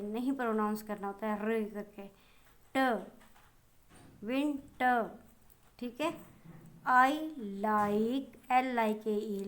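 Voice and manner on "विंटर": विंटर said as vin-ta, the end r dropped; winter without final r. Shown as a demonstration. Teacher to pupils, showing विंटर with a silent final r. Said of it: "र करके नहीं बोलते".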